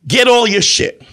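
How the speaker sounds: acting out kicking someone out, each phrase punched; angry eviction. Acted breakup, ordering her out.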